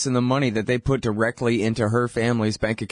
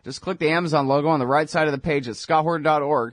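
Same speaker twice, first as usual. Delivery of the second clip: brisk, upbeat sponsor read; 2 semitones higher, faster than usual. Acted. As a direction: rattle it off like a quick promo. Host reads sponsor ad.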